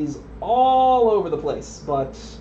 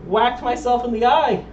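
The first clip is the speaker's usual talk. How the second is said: laughing; 8 semitones higher, 3 dB louder than usual. Real, not acted. Laughing after hurting himself.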